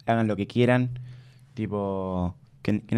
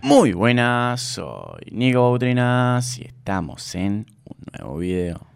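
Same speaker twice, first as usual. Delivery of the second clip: official sing-song greeting; slower than usual. Shown as a demonstration. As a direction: hold the vowels long in a lilting intro, dropping on the last word. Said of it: "el oficial de hoy en día". (saludo oficial con cantito y vocales largas)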